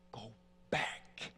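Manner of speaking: low, soft, slow repeat; spent tirade. Retold or imitated. Son repeats the order to the haunting voice, spent. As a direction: drop low and let the order fade out.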